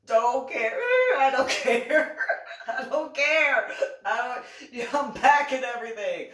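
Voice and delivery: a laughing sing-song of I don't care; mock her crying with dismissive repeats; taunting. Teller taunting the crying woman, laughing and dismissive.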